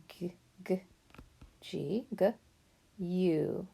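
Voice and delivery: teacher whispering a phonics sound; whispered letter sounds. Shown as a demonstration. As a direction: breathe the G sounds out like a secret.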